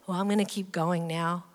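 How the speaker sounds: low, soft pretend nonchalance; offhand, playful pretence of leaving; feigned casual leaving. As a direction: act as if casually moving on. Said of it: "He's pretending like".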